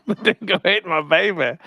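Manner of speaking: high, slow mock Australian turning Scottish; badly faked Australian accent, sounding Scottish; mixed accent gone Scottish. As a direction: stretch it out in a muddled Scottish-Aussie accent. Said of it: "it automatically goes to Scottish".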